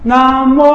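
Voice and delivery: 南无 run together as one smooth beat; 南无连成一拍; two syllables joined. Shown as a demonstration. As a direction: say 南无 as a single flowing unit. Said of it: "不会影响到后面越拖越长的".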